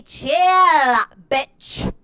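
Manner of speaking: mock diva retort. Diva snaps back at critics.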